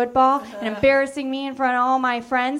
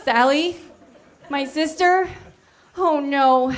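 shocked; 4 semitones higher, slower than usual. Acted. Charlie shocked at sister.

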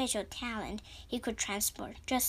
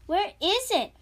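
frantic searching; 4 semitones higher, 6 dB louder than usual. A narrator's reading. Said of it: "Diego muttered to himself".

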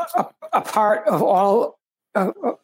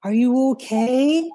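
put-on caring child; 4 semitones higher, slower than usual. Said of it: "he'd say".

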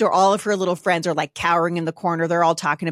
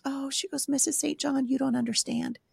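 retold tearful girl; 6 semitones higher, 6 dB quieter than usual. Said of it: "she's just bawling".

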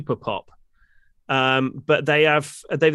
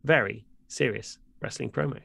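mock serious announcer. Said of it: "we need to calm ourselves down".

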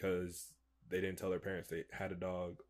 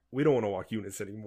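mock freak-out; 6 dB louder, much faster than usual. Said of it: "we were both freaking out".

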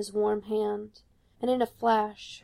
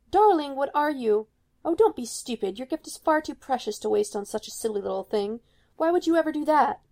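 higher, louder shocked mother; shocked scolding; 4 semitones higher, 3 dB louder than usual. Acted. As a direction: scold her in disbelief.

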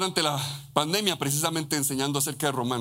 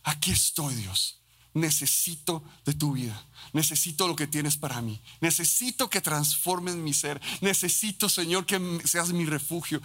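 heartfelt prayer. Pretend. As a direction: pray it gently, like a child asking. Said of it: "y decimos".

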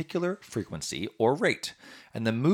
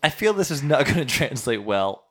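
squeaky voice with laughter; laughing through the helium; 4 semitones higher, 5 dB louder than usual. Real, not acted.

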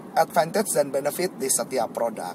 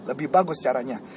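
normal talking voice

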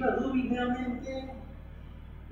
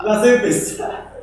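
loud exasperated echo; couple bickering; 5 semitones higher, 9 dB louder than usual. Acted. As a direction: throw the complaint back louder. Echoing the partner's complaint.

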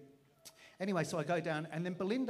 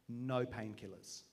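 calm divine voice; 5 semitones lower, slower than usual. Retold or imitated. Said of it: "and the Lord said".

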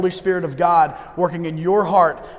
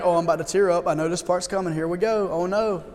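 mock teary; 5 dB quieter than usual. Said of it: "half of you in here would be like".

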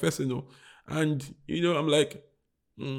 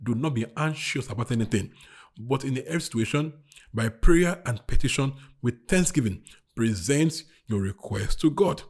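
scripture reading; 4 semitones lower than usual. Real, not acted. Preacher reads scripture aloud.

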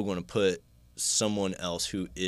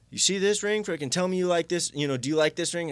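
much higher, loud mocking taunt; taunting thug; 11 semitones higher, 5 dB louder than usual. Attacker taunting him with a skull ring, loud and mocking. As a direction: jeer it while waving the ring in his face.

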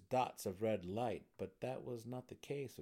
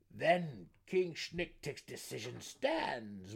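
slightly raised, loud, slow gnome voice; 4 semitones higher, 6 dB louder, slower than usual. A narrator's reading. Gnome ruling on the drow's fate, loud declaration. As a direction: declare it slowly and loudly as a gnome councilor. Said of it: "one of them said".

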